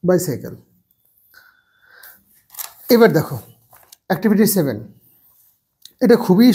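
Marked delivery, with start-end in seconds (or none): 0.1-0.6 she has a bicycle, lower and softer, long gaps; slow dictation. Shown as a demonstration. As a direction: dictate slowly for pupils to write. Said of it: "তার জন্য bicycle". (নিচু গলায় ধীরে লেখানো)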